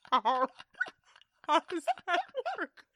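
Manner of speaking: squeezing words out through real laughter; high, loud, laugh-choked disbelief; helpless laughter. Real, not acted. Co-host reacting to the absurd alien-suit idea, cracking up.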